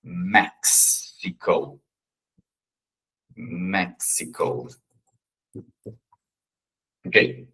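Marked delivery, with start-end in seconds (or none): 0.0-4.7 "Mexico" drawn out slowly, softly; slow soft model word; slow demo. Shown as a demonstration. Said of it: "Aqui vai ser o Mex".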